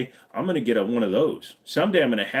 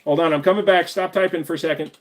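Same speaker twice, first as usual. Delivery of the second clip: called out from across the room, louder and higher; calling out; 9 semitones higher, 5 dB louder than usual. Real, not acted. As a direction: call back to chat from a distance. Calling out to chat while away.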